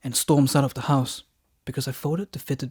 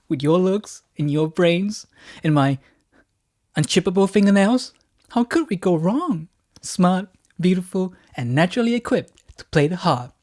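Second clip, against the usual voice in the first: flattering; 4 semitones higher, 4 dB louder than usual. Acted. Flattering wife.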